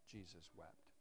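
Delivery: soft and low, letting it land; hushed reading. Acted. Preacher reading the gospel to the congregation, hushed. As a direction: drop the voice for the weight of it.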